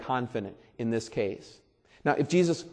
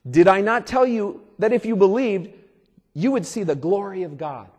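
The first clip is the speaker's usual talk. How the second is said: voicing Jesus; 6 semitones higher, 7 dB louder than usual. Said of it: "Then Jesus said".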